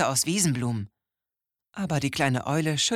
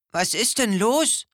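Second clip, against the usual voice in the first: higher, brave little hedgehog voice; a curious hedgehog checks on someone; hedgehog asking; 8 semitones higher, 4 dB louder than usual. A narrator's reading. Hedgehog asking the crying owl, higher voice. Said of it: "fragte der Igel".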